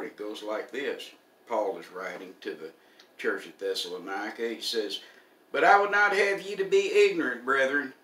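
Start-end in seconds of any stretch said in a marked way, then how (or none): 5.5-7.9 loud, raised preacher's reading voice; scripture reading. Acted. Preacher reading Paul's letter to the congregation, ringing scripture recital. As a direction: proclaim the verse high and loud.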